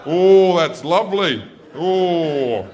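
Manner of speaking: loud, pleased sigh of a dad; dad tries the massager, delighted; mock blissful dad; dad enjoying it. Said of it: "My dad turns it on and goes".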